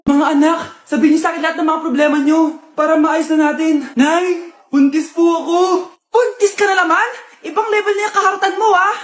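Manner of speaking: loud scolding address; loud mother. Acted. Mother calling her kids to share problems, loud. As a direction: call out to the kids.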